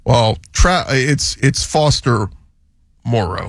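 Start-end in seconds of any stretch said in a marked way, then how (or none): 1.6-3.5 "Moreau" as MORE-oh, spaced out from the first name; stress on first syllable. Shown as a demonstration. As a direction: land on "More" in "Moreau", drop the O. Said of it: "the emphasis on more".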